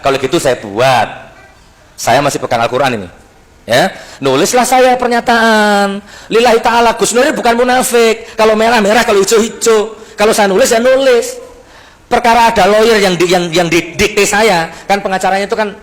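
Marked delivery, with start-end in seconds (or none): 3.7-14.3 raised firm declaration. Real, not acted.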